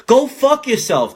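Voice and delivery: high, slow angry outburst. Real, not acted. Ranting at door-to-door salesmen, slow angry outburst. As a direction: spit it out slowly in disgust.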